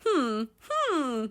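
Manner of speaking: two high hums; comic high-pitched whimpering hum; crazed little hum. Pretend. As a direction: hum high like you have lost it. High hums after losing it.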